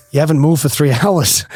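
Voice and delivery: lightly mimicked English boat captain; Pommy English accent. Boat captain to the struggling swimmer, mock English accent. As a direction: retell it in a mild English accent. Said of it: "in the Pommy English accent".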